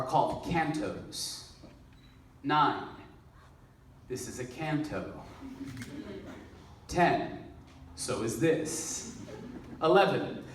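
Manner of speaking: measured stage reading of a numbered poem; poetry recitation. Acted. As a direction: recite it deliberately, pausing around each section number. Reads a numbered comic poem on stage.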